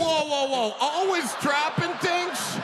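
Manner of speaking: stunned, echoing the words back; incredulous. Real, not acted. Incredulous repeat of quote.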